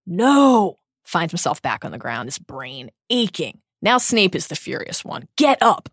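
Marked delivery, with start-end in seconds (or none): 0.1-0.8 loud, high cry of no; screaming no. A narrator's reading. Harry sees Cedric dead and screams, loud cry. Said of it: "he screams". 5.4-5.9 sharp, loud command. A narrator's reading. Furious Snape orders Harry off the floor, sharp and loud. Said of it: "said Snape sharply".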